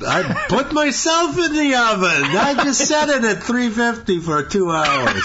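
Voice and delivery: high, laughing mock Jewish accent; hammy Jewish old man joke.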